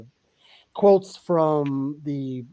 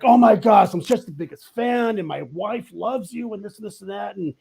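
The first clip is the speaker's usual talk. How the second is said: higher-pitched, gushing fan voice; 5 semitones higher than usual. Retold or imitated. Fan meeting the actor asks for a picture, higher and gushing. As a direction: rattle it off like a starstruck fan. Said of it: "this guy's like".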